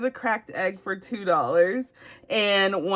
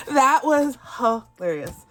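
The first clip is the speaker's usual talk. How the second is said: high, slow words squeezed out through laughter; wheezing from laughing; recovering from a laughing fit over the card; breathless laughing; 3 semitones higher than usual. Real, not acted. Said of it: "I couldn't control my breathing".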